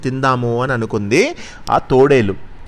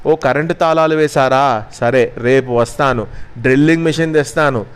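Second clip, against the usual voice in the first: mild anger. Acted. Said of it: "అంది కోపంగా".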